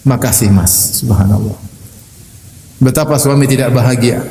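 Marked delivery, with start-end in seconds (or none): 0.1-1.0 low, gentle thanks; grateful wife. Retold or imitated. Wife thanks husband for a simple chicken meal, gently grateful. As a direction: say thanks with the pitch dropped low. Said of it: "dia bilang".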